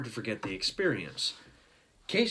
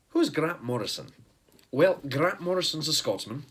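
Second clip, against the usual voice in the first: mock Scottish accent, a bit louder; hammed-up American take on a Scottish accent; fake Scottish accent; 5 semitones higher, 3 dB louder than usual. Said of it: "try to stop doing a fake Scottish accent".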